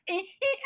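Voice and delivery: short, very high squeaks of alarm; high panicked squeal. Acted. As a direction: squeal like a frightened victim. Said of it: "and she's like".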